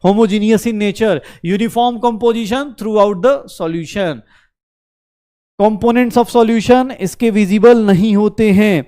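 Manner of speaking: very slow, spaced-out dictation; dictating. Real, not acted. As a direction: dictate it word by word for note-takers. Dictating notes for students to write.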